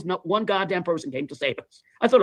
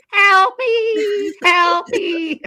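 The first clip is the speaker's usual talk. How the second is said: high, loud desperate shriek; panicked scream for help; 14 semitones higher, 7 dB louder, much slower than usual. Retold or imitated. Drowning man replays his cry to friends, frantic high scream. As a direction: yell like the tide is pulling you under. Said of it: "I was screaming at the top of my lungs".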